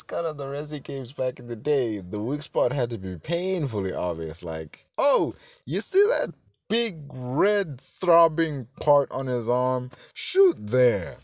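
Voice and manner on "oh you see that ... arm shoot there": slow, higher, teasing game-guide voice; a drawn-out, mocking helper voice; sarcastic mock hint. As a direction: spell out the painfully obvious. Mocking old games' obvious hints.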